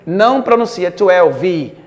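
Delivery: "twelve" with a sounded vowel after the v; wrong twelve. Shown as a demonstration. Teacher mocks the wrong "twelve" students use. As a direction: add a vi at the end of "twelve". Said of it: "a pronúncia é quase desprezada".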